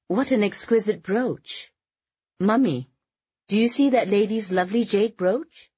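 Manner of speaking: high-pitched, effusive society gushing; gushing admiration. A narrator's reading. Daughter pointing out a brooch to her mother, gushing. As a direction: exclaim it high, with polite over-enthusiasm.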